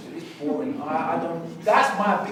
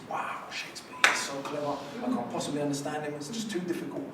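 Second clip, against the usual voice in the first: mock awe; 5 dB quieter than usual. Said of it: "defined even in Britain as this".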